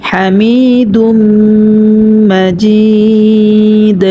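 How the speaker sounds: মাজিদ chanted slowly, ending on a still দ; waqf recitation. Shown as a demonstration. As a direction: stop on মাজিদ with a silent দ. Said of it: "দালটাকে সাকিন করে ফেলব". (মাজিদ-এ দাল সাকিন করে থামা)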